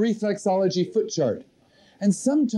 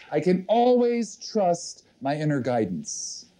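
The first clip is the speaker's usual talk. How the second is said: slow dictation; slower than usual. Shown as a demonstration. Dictating affirmation for audience to write.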